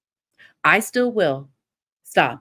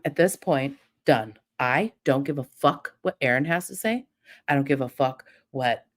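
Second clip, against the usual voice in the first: normal talking voice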